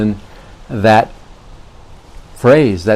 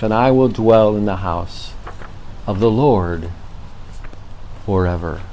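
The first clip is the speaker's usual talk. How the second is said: calm, measured psalm reading; scripture reading. Acted. Pastor reading the twenty-third Psalm to his viewers, reverent. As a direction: read it gently, letting it comfort. Reads the 23rd Psalm aloud.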